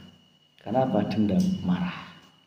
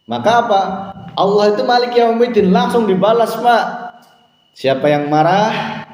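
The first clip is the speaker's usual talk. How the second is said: high, loud preacher's exhortation; preaching at full force; 7 semitones higher, 3 dB louder than usual. Acted. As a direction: urge the congregation to make amends. (khotbah berapi-api, nada tinggi dan keras)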